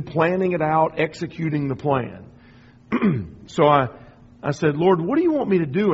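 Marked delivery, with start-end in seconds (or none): 4.8-5.9 mildly frustrated. Retold or imitated. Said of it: "I was a little bit frustrated".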